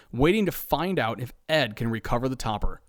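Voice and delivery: ordinary delivery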